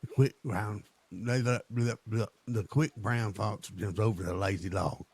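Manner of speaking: stumbling attempt at an English accent; imitated English accent. Practising the friend's sentence, imitated English accent. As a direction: try again at sounding English. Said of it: "in your actual voice".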